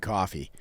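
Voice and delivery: "coffee" with an open Boston "ah" vowel. Shown as a demonstration. Bostonian showing partner the home way, "coffee" as "cah-fee". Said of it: "we say coffee".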